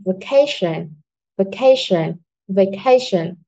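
"vacation" with a strong "ca"; teacher's model of "vacation", weight on "ca", falling after it; stress on second syllable. Shown as a demonstration. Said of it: "trọng âm rơi vào âm tiết số hai". (nhấn âm hai "ca" trong "vacation")

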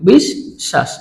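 বিশ্বাস split as bish-shash; doubled শ pronunciation. Shown as a demonstration. Teacher repeating the word after spelling it, doubled শ pronunciation. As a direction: sound both শ in বিশ্বাস, no ব. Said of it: "আমরা কিভাবে উচ্চারণ করছি".

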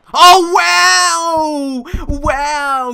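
high, loud stunned wow; shocked exclamation. Real, not acted. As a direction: gasp it out in outrage. Shocked by game event.

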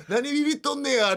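the thug repeats 何ビビっとんねや in fake Kansai dialect; bad Kansai dialect. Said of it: "下手くそな関西弁で".

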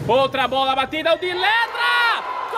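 building goal call. Real, not acted. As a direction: race up to the goal cry. Gol narrado ao vivo. (narração subindo até o grito de gol)

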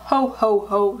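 a light, mock jolly ho ho ho; lightly voiced Santa chuckle; a hint of a jolly Santa laugh. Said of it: "Santa laughs".

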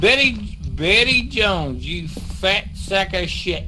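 taunting yell. Acted. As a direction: bellow the insult at the ghost. Yelling insults at the ghost.

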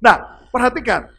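loud rising sermon voice; preaching at full force. Acted. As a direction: preach it to the crowd. Preaching to the congregation.

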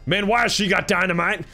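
incredulous alarm. Pretend. Gamer spotting someone holding dynamite, incredulous alarm. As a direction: ask it again in mounting disbelief. Repeats question in louder alarm.

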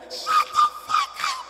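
very high, loud, stretched-out squeal; voice shooting up. Retold or imitated. Father showing he is serious, voice shooting up. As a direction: screech it slowly in falsetto. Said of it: "When your voice go up, you serious".

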